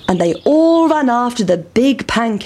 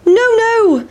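high, louder pancake refusal; cheeky pancake teasing the boys; high sing-song no no; 13 semitones higher, 4 dB louder than usual. A narrator's reading. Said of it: "said the big pancake".

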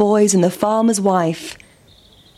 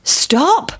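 a sudden high call to halt; lightly voiced sheep, calling out; sheep's voice; 8 semitones higher than usual. A narrator's reading. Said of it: "said the sheep".

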